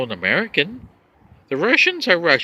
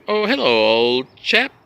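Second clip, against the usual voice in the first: put-on British accent; 2 semitones lower, 4 dB louder, slower than usual. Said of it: "Or how about a British?".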